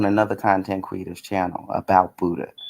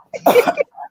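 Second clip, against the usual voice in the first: sharp throat-clearing cough; quick dry cough into the mic; 4 dB louder than usual. Real, not acted. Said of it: "Oh, my ear is itching so bad".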